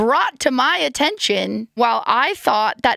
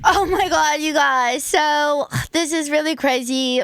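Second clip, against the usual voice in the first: excited; 7 semitones higher than usual. Real, not acted. Reacting to producer's arrival.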